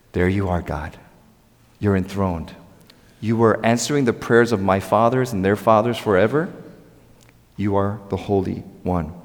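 low, soft prayer to God; quiet reverence. Acted. Voices David praying quietly to God.

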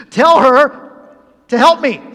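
loud, slow, high demand; hammered-out mock fury, each word stretched; acted exasperated yell for help; really mad. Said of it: "She is really mad".

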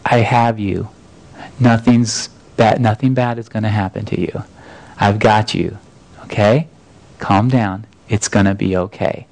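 put-on calm a frightened child; reassuring dad. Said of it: "I told Maddie as we were floating".

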